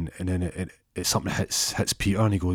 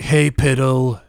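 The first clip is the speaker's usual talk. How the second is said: loud, higher-pitched taunting greeting; mocking call; 5 semitones higher, 7 dB louder, slower than usual. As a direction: call out a teasing hey to an old schoolmate. Schoolmates mock him in story.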